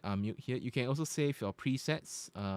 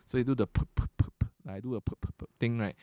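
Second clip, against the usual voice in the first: popping p sounds; faster than usual. Shown as a demonstration. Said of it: "You can actually hear the P's".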